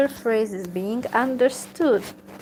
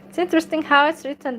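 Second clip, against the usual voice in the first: fast, higher aside; quick aside; 6 semitones higher, 4 dB louder, much faster than usual. Real, not acted. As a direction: rush through the side comment. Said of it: "aside, fast and higher".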